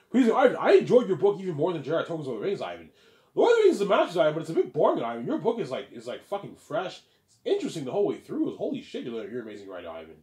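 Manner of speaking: high, loud, over-the-top fan praise; gushing fan. Retold or imitated. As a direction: gush like a starstruck reader. Reader gushing to Ivan.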